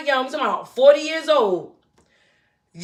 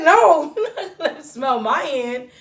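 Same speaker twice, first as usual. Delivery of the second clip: laughing protest; 3 semitones higher, slower than usual. Real, not acted.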